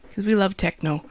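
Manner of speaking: light natural Wisconsin accent; slight Upper Midwest vowels. Real, not acted. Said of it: "I heard my, uh, Wisconsin accent there".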